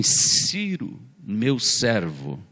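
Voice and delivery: slow, solemn voice of God, lightly voiced; a hint of a solemn divine voice; God speaking. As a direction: pronounce it like a divine decree, measured. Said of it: "ele fala assim".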